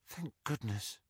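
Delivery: soft, breathy whisper; whispered relief. A narrator's reading. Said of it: "Ginny whispered".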